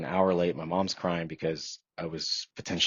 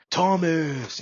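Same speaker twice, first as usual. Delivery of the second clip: loud, high call across the yard; 11 semitones higher, 5 dB louder than usual. Retold or imitated. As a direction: hail the man by name, loud and high. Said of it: "and he's like".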